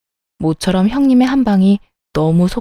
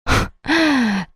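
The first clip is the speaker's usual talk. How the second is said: short bitter laugh; a dry, disbelieving chuckle; scoffing laugh; 4 semitones higher, 4 dB quieter than usual. Acted. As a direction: scoffs at her husband mid-argument. Wife scoffs during the quarrel.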